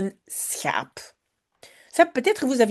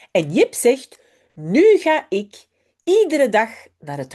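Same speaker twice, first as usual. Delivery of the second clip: put-on lively storybook read-aloud of a Dutch children's text. Teacher reads a Dutch story to her pupils, lively storybook voice. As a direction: bring Jip and Janneke to life for the class.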